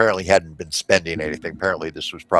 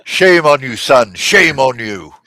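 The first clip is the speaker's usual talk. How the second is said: scolding gnome; 5 semitones higher, 6 dB louder, slower than usual. Acted.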